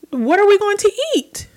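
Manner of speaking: high, breathy whispered panic; panicked whisper. Retold or imitated. Retelling her dream, whispering in panic about no food.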